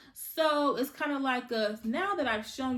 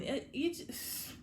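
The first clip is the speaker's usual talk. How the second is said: speechless; 4 semitones higher, 7 dB quieter, slower than usual. Real, not acted. Speechless at Kevin's plotline.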